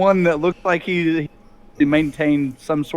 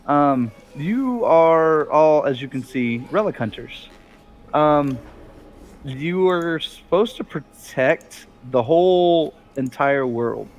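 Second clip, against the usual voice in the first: refined Bob; 3 semitones lower than usual. Acted. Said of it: "He sounds more refined".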